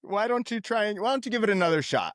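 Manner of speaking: mock condescending. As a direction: talk down to her playfully. Mocking the doctor.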